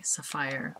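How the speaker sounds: sapphire in a Caribbean lilt; imitated Caribbean pronunciation of sapphire; Caribbean accent. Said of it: "this lovely accent, and that's how they say".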